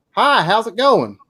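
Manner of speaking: slow, high Georgia Southern drawl. Imitating the person behind a gas station counter in Georgia: Georgia Southern accent. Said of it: "'Cause they're talking like that".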